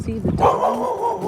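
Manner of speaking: put-on high, slow baby talk to her son. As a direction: coo it to the little one.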